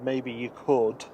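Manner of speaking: sugary passive-aggressive hint to Thierry; sweet on the surface, pointed underneath; sweetly passive aggressive. Pretend. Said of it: "Me doing my best passive-aggressive voice".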